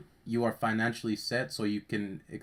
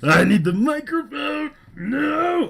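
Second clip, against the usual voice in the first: laughing; 13 dB louder, slower than usual. Real, not acted. Laughing while grabbing the mic.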